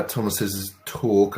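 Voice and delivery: ordinary talk, nothing marked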